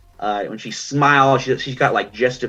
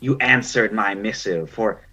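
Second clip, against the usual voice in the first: ancient otter crone; 2 semitones higher than usual. Acted. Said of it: "And she's like".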